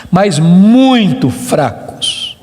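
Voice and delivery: drawn out slowly and low; slow emphatic. Acted. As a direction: lean on "muito fracos" slowly. Sermon stress on weakness.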